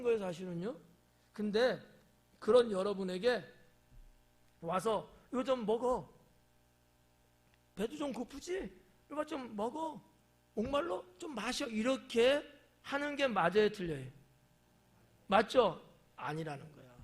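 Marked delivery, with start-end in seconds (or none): 5.3-11.7 caring offer. Acted. Kindly offering food and drink.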